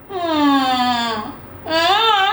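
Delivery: drawn-out pretend sobbing hum; mock whimper. Streamer pretending to cry over comments, mock whimper. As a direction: whimper wordlessly as if hurt. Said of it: "Aku nangis ae".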